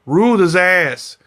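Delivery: "Ruled" punched loud and slow; loud gloat. Real, not acted. Repeats gloat to the audience.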